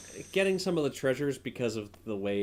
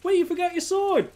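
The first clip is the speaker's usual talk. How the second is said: pitched way up and loud; movie character voice; 6 dB louder than usual. Retold or imitated. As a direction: shout the line high like a cartoon. Quoting movie line in voice.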